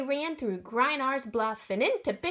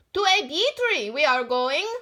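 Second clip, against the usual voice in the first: puffing; 3 semitones higher, 7 dB louder than usual. Acted. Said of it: "Einar Tundevold puffed".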